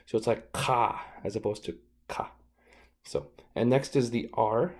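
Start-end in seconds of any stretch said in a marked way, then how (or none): 0.5-2.3 "ka" first from far back in the throat, then a normal k; deep throat Q. Shown as a demonstration. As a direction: contrast a throaty back "ka" with a front "ka". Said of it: "Q's are really strong and they come from the back of our throats".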